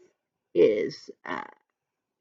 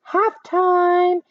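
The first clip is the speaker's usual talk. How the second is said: loud high call of halftime; excited referee shout; yelled; 10 semitones higher, 5 dB louder than usual. Acted. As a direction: shout it across the field. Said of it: "Jake yelled".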